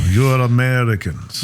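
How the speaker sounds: slow mock-Russian pronouncement; Russian accent. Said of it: "try to do a Russian accent".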